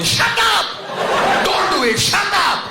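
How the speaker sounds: put-on shrill high Indian-accented yell; Indian heckler. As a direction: scream it like an angry Indian uncle. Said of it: "That's a heckle".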